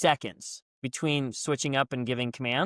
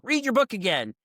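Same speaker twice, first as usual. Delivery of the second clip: mock drill yell; 8 semitones higher than usual. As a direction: bark it like a drill instructor. Boot camp instructors yelling orders.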